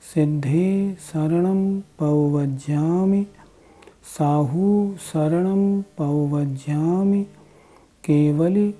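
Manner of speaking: each line chanted evenly with a lift on the first word; measured mantra recitation. Shown as a demonstration. Recites the Chattari Dandak mantra.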